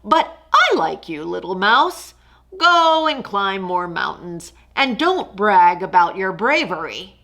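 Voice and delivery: a lazy king unimpressed; lightly voiced lion; dry lion.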